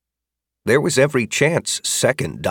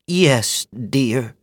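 put-on kindly older woman; 4 semitones higher than usual. Magda voiced by narrator.

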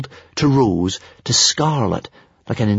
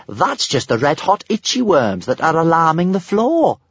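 higher-pitched, breezy dismissal; careless; 8 semitones higher than usual. A narrator's reading. Kamikaze explains the itchy worms, carelessly. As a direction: explain it as no matter at all. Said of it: "said Kamikaze carelessly".

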